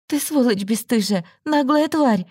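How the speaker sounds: furious insult. A narrator's reading. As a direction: spit out the insults.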